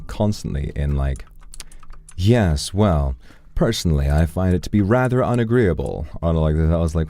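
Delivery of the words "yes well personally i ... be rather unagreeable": lightly mocked pompous character voice; a hint of a stuffy, affected Discord role-player; W. D. Gaster. Discord guy talking constantly in character, lightly mocked affected voice. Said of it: "practicing my W D Gastro voice".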